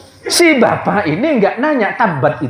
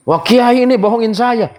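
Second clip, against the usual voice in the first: complaining host; 7 semitones higher than usual. Retold or imitated. Host accuses the kiai.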